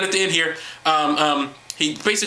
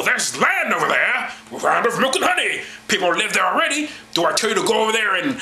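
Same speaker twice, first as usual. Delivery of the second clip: lightly voiced vengeful God, pompous; mock angry God; 4 semitones higher than usual. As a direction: play a petty tyrant God, lightly. Mock God voice reading Bible.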